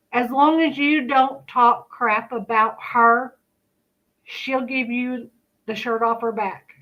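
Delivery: speaking without dentures; talking with missing teeth. Real, not acted. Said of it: "I forgot to put my teeth in".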